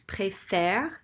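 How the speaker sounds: "Préfère" with open eh in the last syllable; flipped accent. Shown as a demonstration. Teacher showing the flipped accent, "Préfère" ending in open eh. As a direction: say "Préfère" ending like English "fair". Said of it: "because of the way it sounds".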